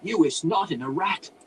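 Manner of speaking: put-on high, loud accented outburst; strained, foreign-sounding character shriek. A narrator's reading. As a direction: shriek it like a startled crazy wizard. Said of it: "he shrieked in strained but understandable Drow".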